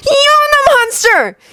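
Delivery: high, slow, drawn-out furious cry; roar. Acted. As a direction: roar it at him. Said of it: "he heard himself roar".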